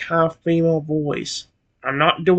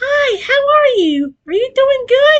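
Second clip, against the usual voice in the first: very high, very slow, loud cartoon girl voice; 4 dB louder than usual. Speaker demonstrates the voice he usually uses for female voices: loud high-pitched female voice. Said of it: "That's one thing I usually use for female voices".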